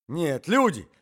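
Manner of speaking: very loud, high alarm; loud urgent shouts; shouting old man. A narrator's reading. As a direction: yell for help at full voice. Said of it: "закричал старик".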